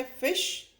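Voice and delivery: फिश with a quick short i; short i in fish. Shown as a demonstration. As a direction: clip the i in फिश. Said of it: "short sound है". (छोटी ध्वनि में फिश)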